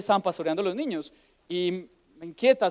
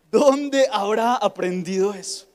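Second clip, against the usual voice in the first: feigned innocence; 2 semitones higher, 4 dB louder, slower than usual. Retold or imitated. Mother's feigned puzzlement.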